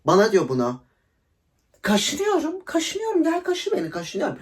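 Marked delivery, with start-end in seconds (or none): 1.8-4.4 high, teasing sing-song mockery of the ex; mock him in a much higher, cooing voice; mocking itchy whine. Answering her ex's jealous question, high and mocking.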